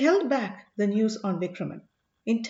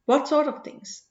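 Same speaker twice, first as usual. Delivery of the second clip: a touch of disbelief, pitched higher; incredulous; 5 semitones higher, 3 dB louder than usual. A narrator's reading. The sage questions Ponnan's terms, mildly incredulous. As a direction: let doubt lift the question. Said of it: "with a note of incredulity in his voice".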